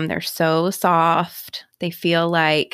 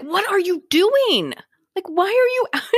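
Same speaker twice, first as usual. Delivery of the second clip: retold incredulity; 11 semitones higher than usual. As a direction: imitate a neighbour aghast at a crazy sight. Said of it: "looking at me like I'm crazy".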